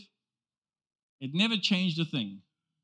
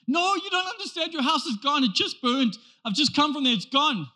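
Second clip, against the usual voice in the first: insistent panic; 6 semitones higher than usual. Retold or imitated.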